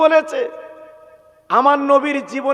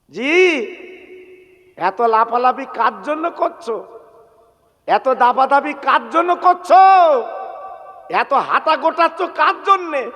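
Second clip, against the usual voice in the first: sing-song sermon exhortation with held phrase endings; melodic preaching. Real, not acted. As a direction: preach in ringing phrases, pausing after each.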